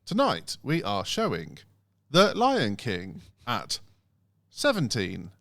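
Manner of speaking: slow, stilted recorded announcement; automated phone voice. Retold or imitated. Old cinema phone line listing showings, lightly robotic. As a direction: drag out each word like a recorded menu. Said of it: "And then it'd be like".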